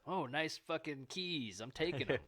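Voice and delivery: slow, drawn-out mock admiration; lightly voiced thieving ferret. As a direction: lightly play a delighted little thief.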